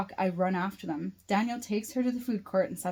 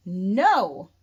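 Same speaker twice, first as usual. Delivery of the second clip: screaming; 8 dB louder than usual. A narrator's reading. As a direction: scream it back in defiance. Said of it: "Raylene screams at him".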